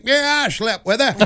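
creaky senator recalling a conquest; Strom Thurmond. Acted. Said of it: "Strom Thurmond ... look at it and think".

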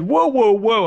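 high mock anchor interruption; imitating Tom Brokaw. Brokaw again stopping the guest, high mock interruption. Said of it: "and he said".

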